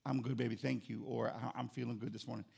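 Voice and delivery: soft, low mock sleepy reply; a hint of a sleepy wife; lightly voiced soft wife reply. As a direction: answer softly, barely waking. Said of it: "she responds to me".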